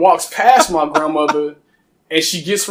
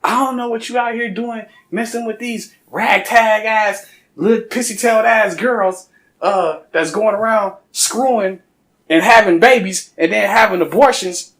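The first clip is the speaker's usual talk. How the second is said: grandma going off; 5 semitones higher than usual. Retold or imitated. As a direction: chew him out like an angry grandmother. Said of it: "she just goes off".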